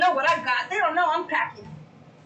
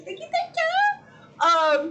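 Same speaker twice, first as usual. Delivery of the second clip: high, slow, laughing sing-song thank you; much slower than usual. Real, not acted. Streamer thanking her chat, laughing and high-pitched. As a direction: gush thanks through a laugh.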